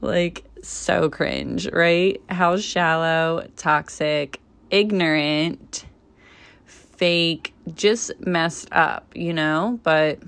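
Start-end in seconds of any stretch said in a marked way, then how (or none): 0.0-8.7 eye-roll disdain. Real, not acted. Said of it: "I'm rolling my eyes".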